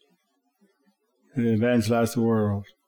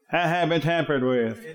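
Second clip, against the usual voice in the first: tinny car alarm voice; 4 semitones higher than usual. Retold or imitated. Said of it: "real tinny voice sounding".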